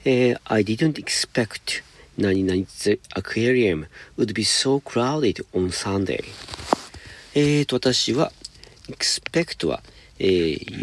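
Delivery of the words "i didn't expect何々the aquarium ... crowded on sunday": slow, careful read-aloud of the English sentence; slow example reading. Shown as a demonstration. Teacher reading the example to students, slow and deliberate. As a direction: spell it out slowly for the class.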